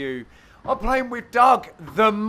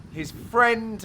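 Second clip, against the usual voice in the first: friend leaned on, set apart after a pause; stress on friend; 4 semitones higher than usual. Shown as a demonstration. Teasing the opponent's one mate, stressing friend. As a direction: give friend a pointed little push. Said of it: "I emphasise the word friend".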